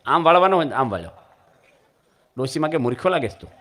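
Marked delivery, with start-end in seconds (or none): 2.8-3.5 mocking old woman. Old woman mocks the man.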